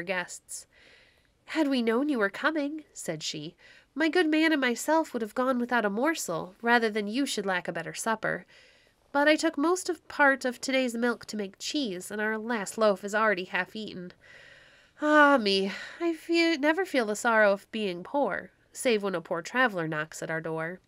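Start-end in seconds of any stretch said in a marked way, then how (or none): 1.5-2.8 put-on higher, fretful old wife; a lightly voiced anxious old woman; old wife Baucis. Baucis apologizes to her guests, higher and fretful. 3.9-20.8 a lightly voiced anxious old woman; old wife Baucis. Old wife apologizes for supper.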